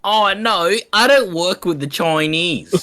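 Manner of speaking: imitated old lady, high and drawn out. Old lady patient refusing her Asian nurse, imitated old lady. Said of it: "this old lady, she just turns".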